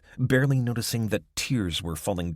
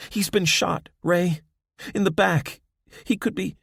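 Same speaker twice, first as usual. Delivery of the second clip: much higher, urgent and upset; distressed; 11 semitones higher, 4 dB louder than usual. A narrator's reading. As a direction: blurt out the bad news. Abby explains, distressed.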